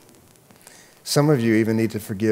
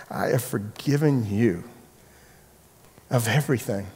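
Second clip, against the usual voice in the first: hushed, grave reminder of forgiveness; God's reproach; 2 semitones lower, 7 dB quieter than usual. Acted. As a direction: say it quietly, leaving long pauses. Voices God's gentle reproach.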